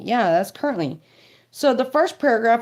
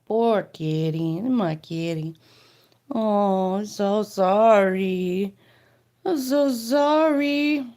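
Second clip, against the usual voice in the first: tender sympathy; 3 semitones lower, slower than usual. Real, not acted. Comforting the cat.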